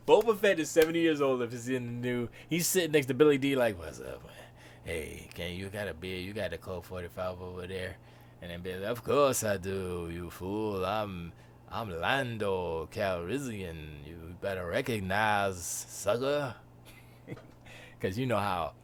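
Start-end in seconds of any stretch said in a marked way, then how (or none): 3.8-8.0 put-on lower, softer old Boba Fett; a lightly voiced aged bounty hunter. 8.8-16.5 slow, lower smooth talker; a lightly voiced smooth Lando. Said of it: "how Lando was smooth".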